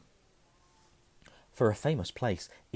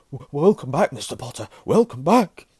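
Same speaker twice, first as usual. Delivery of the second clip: emotional welcome; 7 semitones higher, 11 dB louder than usual. Acted. Barman tearful welcome.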